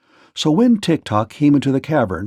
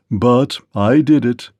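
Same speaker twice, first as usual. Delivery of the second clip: proud. Acted. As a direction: claim the credit. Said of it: "he added proudly".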